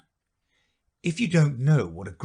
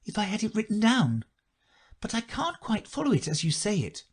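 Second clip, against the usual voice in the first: polite; 11 semitones higher than usual. A narrator's reading. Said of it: "Alice said very politely".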